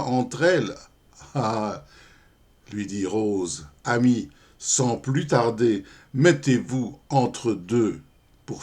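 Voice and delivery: measured verse reading with voiced dialogue; poem recitation. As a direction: recite the verse, pausing at each line. (récitation de poème galant, rythmée)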